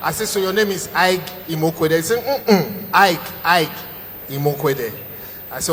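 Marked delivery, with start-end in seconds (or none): 2.2-4.9 mock stammer. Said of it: "the stammer is so bad".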